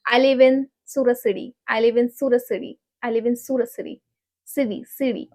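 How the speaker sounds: "City" run quickly with a soft D for T; American tapped T in "City". Shown as a demonstration. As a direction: say "City" like "siddy" in the phrase. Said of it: "But in American, we say city".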